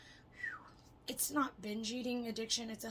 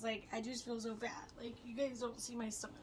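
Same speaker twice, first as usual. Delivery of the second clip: hushed confessing whisper; 6 dB quieter than usual. Real, not acted. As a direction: whisper it like a secret.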